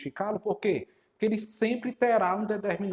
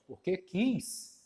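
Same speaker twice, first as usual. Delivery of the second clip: 1 slow retort; 2 semitones higher, much slower than usual. Shown as a demonstration. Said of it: "se eu retrucasse essa sua resposta".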